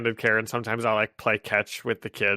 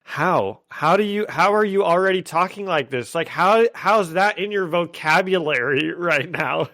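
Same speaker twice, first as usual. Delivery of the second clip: incredulous; 5 semitones higher than usual. Retold or imitated. Teacher baffled by child's slang.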